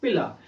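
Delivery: पिला ending in an open vowel, no R; silent R. Shown as a demonstration. Teacher answering how the word is spoken, silent R in पिला. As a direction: drop the final R in पिला. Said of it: "आर हमेशा silent रहता है".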